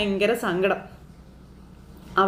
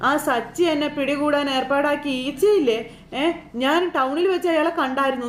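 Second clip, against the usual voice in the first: lightly voiced, higher anxious caller; a hint of a nervous man reporting on the phone; worried Beeranikka; 4 semitones higher than usual. Narrator voicing Beeranikka telling Meera, mildly nervous and higher.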